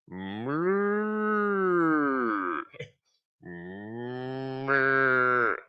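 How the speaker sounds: high drawn-out cow moo. Pretend. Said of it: "That's my cow impression".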